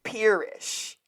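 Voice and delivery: "Peerish" with a long ee; "Peerish", clearly opening on PEER; "Peerish" from pier. Shown as a demonstration. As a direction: say "Peerish" as pier plus ish. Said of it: "they were near a pier".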